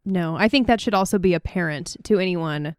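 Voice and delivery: raspy, sore sick-throat voice; hoarse sick voice. Real, not acted. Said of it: "My voice sounds terrible right now".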